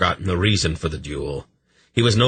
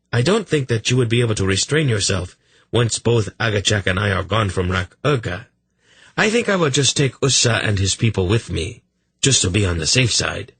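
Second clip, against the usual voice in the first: haughty king voice; 4 semitones higher than usual. Acted. King Urgot voiced in story.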